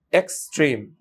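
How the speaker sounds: "এক্সট্রিম" slowly parted as EX and treme; split into syllables. Shown as a demonstration. Teacher shows the word's two syllables, split into syllables. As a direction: say "এক্সট্রিম" in two parts, "এক্স" then "ট্রিম". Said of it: "এখানে stress হওয়ার কথা".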